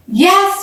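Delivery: high emphatic yes; defiant emphatic yes. A narrator's reading. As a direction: say it with full conviction. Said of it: "he said emphatically".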